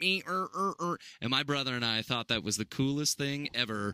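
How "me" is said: choppy, pitched-up comic robot voice. Retelling a comedian's bit from a talent show: imitating a comedian's robot voice. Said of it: "And then he'd do this robot voice".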